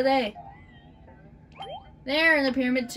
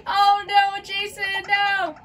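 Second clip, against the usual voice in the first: exasperated dismay; 5 semitones higher than usual. Real, not acted. Player dismayed at Jason's action.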